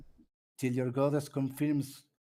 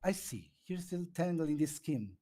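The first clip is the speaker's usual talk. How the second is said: put-on girl voice; 4 semitones higher than usual. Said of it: "now you do the girl voice".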